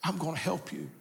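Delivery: quiet comfort to a frightened man; reassuring. Acted. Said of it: "he's reassuring him".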